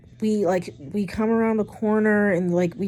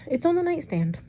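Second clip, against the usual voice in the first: disbelief; 10 semitones higher than usual. Real, not acted. Disbelieving realization.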